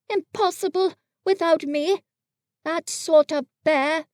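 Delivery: puffed up, savouring it; proud. Acted. Pooh in a corner, proudly praising himself. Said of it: "said proudly to himself".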